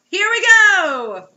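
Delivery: high loud slow drawn-out cheer; gleeful anticipation. Real, not acted. Co-host gleefully awaiting the next twist. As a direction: drag it out with glee.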